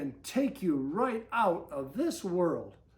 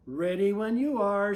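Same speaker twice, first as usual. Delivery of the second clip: shouted; 7 dB louder than usual. Acted. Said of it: "Susie shouted".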